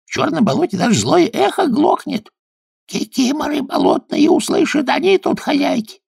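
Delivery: high, small forest-spirit voice; Leshek's voice. A narrator's reading. Forest sprite warns Kuzka about the swamp, high and small. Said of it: "ответил Лешек".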